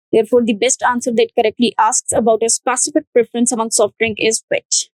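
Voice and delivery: slow, careful model answer; slow answer read. Shown as a demonstration. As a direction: dictate the answer slowly. Reads model answer slowly. (धीमे, साफ़ उत्तर पढ़ना)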